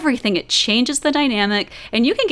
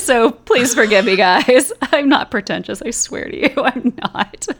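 laughing apology; 4 semitones higher, 4 dB louder than usual. Real, not acted. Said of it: "I over-accentuate my syllables".

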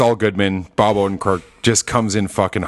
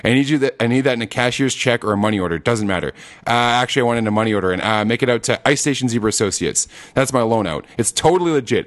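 Saul impression. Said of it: "And then just".

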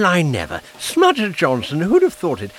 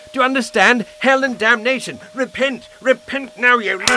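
thunderous wrathful prophet; 3 semitones higher than usual. Acted. Vicar preaching hellfire at suspect.

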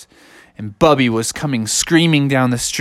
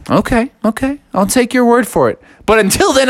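higher, impatient bear voice; grudging agreement; 8 semitones higher than usual. Acted. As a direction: give in with raised pitch. Bear grudgingly accepts brother's promise.

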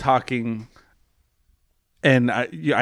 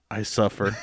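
soft, low eerie murmur; creepy sleep talk; 5 semitones lower, 5 dB quieter than usual. Retold or imitated. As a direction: say it like a haunted sleeper. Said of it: "I say these words to her".

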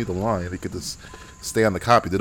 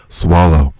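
Jeff Bridges voice; 8 semitones lower, 7 dB louder than usual. Shown as a demonstration. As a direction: Swallow said low and louder, as if chewing with food in the mouth. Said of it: "You gotta talk like you're".

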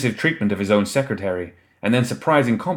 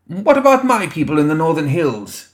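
higher, louder demand; 8 semitones higher, 4 dB louder than usual. A narrator's reading. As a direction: insist on an answer, pitched up. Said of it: "yet another staffer demanded".

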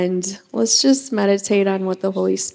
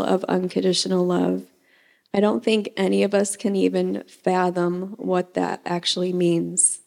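prayer. Acted. Leads the congregation in prayer.

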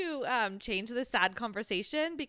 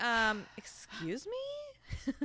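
offended; 4 dB quieter, much slower than usual. Retold or imitated. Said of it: "Tessa's like".

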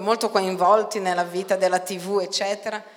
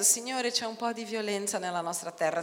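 softer, offhand prayer; understated polite complaint; mild complaint; 6 dB quieter than usual. Shown as a demonstration. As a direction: say it lightly as if nothing's wrong. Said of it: "non sta dicendo".

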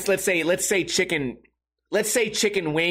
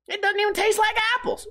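high, whiny mocking of the ad line; mocking a cereal commercial in a high voice; mocking quote; 14 semitones higher than usual. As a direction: sneer at the ad by pitching it up high. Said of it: "that commercial".

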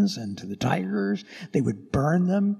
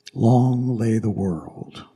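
slow recitation; 4 semitones lower, 5 dB louder, much slower than usual. Acted. Quoting hymn slowly.

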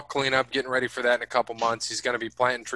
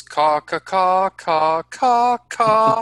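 louder, higher squawking bird call; parrot caw; 8 semitones higher, 7 dB louder, much slower than usual. Retold or imitated. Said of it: "Is that how that goes?".

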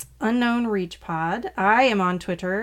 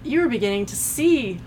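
Bendu voice; 2 semitones higher than usual. Retold or imitated. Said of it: "I love his ha's".

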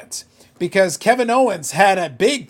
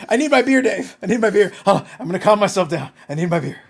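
mock desperate. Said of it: "I'd be like".

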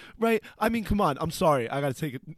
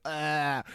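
imitated "ah" with tongue stuck out; 6 semitones lower, 11 dB quieter than usual. Posing for the reporter's camera, tongue-out "ah". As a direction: stick your tongue out and go "ah". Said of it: "stuck my tongue out real big".

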